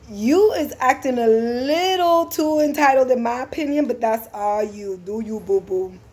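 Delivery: sassy. Retold or imitated. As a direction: tell her off with sass. Driver sasses entitled passenger.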